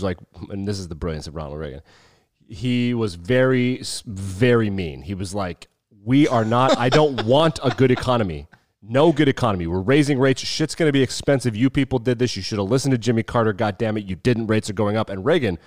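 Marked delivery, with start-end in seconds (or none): 6.0-15.1 hammed-up stern Volcker rant; mock Fed chairman. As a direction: bark out the rate hike like a hard-nosed Fed chief. Volcker voiced raising rates.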